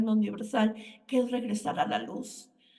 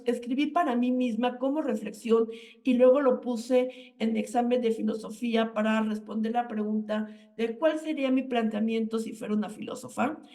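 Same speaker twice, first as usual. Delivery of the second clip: normal talking voice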